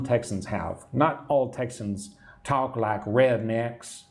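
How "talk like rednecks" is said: slow, drawled touch of redneck Texan; redneck accent. Shown as a demonstration. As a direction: lightly mimic a redneck Texas accent. Mimics the redneck accent mentioned.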